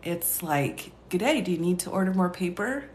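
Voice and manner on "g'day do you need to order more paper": lightly imitated Australian voice assistant; a light Australian accent, like a smart speaker asking. Partner's voice assistant asking about paper, imitated Australian accent. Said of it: "Australian accent".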